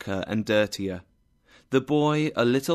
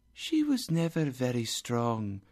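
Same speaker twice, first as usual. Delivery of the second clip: soft, airy ghostly voice; gentle spirit; 5 dB quieter than usual. Acted. Spirit speaks about Scrooge's sister, softly. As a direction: speak softly, as from another world.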